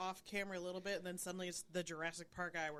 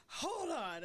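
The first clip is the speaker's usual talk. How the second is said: imitated English accent; 7 semitones higher than usual. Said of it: "he's this English guy who's like".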